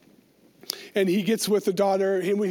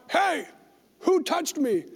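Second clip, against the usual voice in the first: raised-pitch call-out without real volume; mock yell; 5 semitones higher, slower than usual. Jesus calling out over everybody else, mild mock yell. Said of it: "over everybody else yelling out".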